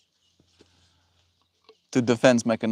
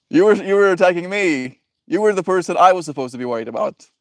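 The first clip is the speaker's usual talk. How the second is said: indignant accusation; 6 semitones higher, 4 dB louder, faster than usual. Acted. Acted quarrel continues.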